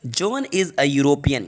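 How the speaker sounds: slow and low, word by word; slow dictation. Shown as a demonstration. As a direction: read the answer slowly for students. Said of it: "जो कि right answer होगा". (धीमे और नीचे सुर में)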